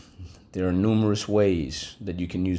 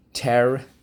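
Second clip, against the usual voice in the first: Terrifying said louder and higher; emphatic model; 5 semitones higher, 5 dB louder than usual. Shown as a demonstration. Teacher calling Terrifying for class to echo. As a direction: call out Terrifying strongly. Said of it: "All right".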